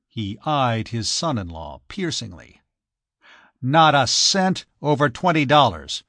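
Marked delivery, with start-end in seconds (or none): 3.6-6.0 flat, hard refusal of money; cold, firm no to the son-in-law. Acted. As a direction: shut him down coldly. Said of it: "he said coldly".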